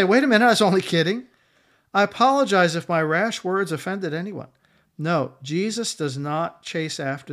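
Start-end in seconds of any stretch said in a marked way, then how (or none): 0.0-4.5 higher, louder, hurried backtracking; imitated frantic apology, pitched up; mock apology. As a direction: play a panicky take-back for comic effect. Mock backtracking quote he rejects.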